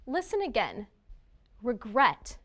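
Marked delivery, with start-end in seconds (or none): 1.6-2.4 Regret said re-GRET, weight on the end; stress on second syllable. Shown as a demonstration. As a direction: say Regret with a short, weak first syllable. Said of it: "The second syllable is stressed".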